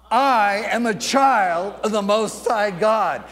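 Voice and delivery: firm, emphatic declaration of faith; emphatic, full-voiced affirmation; like you mean it. Shown as a demonstration. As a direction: declare it with real conviction. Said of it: "say it like you really mean it".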